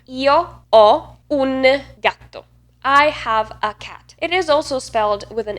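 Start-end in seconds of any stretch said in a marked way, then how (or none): 0.1-2.4 slow Italian, "ho" wide open with silent h; open O verb. Shown as a demonstration. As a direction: dwell on an open "ho", slowly. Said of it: "O, the open version of it, is a verb".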